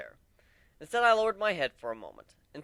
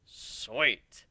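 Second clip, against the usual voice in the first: eager stallion; 4 semitones lower than usual. Acted. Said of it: "he replied".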